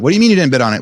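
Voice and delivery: mock indignant wife; incredulous challenge. Wife questions husband over the missed bid, lightly acted incredulity.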